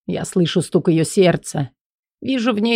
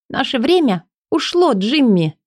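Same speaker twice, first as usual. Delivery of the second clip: Элли pleading; 7 semitones higher than usual. Acted. Элли's emotional confession.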